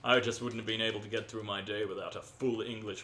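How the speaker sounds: hammed-up English gent; comic English character voice; mock English accent. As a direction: lay the English accent on thick. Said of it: "I am rather English".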